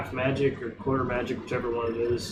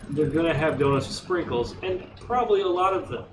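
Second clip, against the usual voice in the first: higher and rushed, incredulous protest; exasperated rant; 4 semitones higher than usual. Retold or imitated. Husband arguing with wife about donut order, exasperated and rushed. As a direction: pile on the disbelief fast. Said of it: "I'm like".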